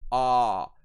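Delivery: "ah" sung out long and loud on a level pitch; a sustained, open British "ah"; broad A vowel. Shown as a demonstration. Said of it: "this is the ah sound".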